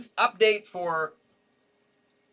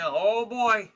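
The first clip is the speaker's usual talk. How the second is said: ordinary talk, nothing marked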